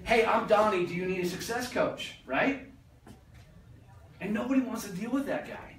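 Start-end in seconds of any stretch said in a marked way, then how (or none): 0.0-2.2 higher, louder cheesy sales pitch; pushy salesman. Retold or imitated. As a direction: pitch yourself like the guy nobody wants to deal with. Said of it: "But saying".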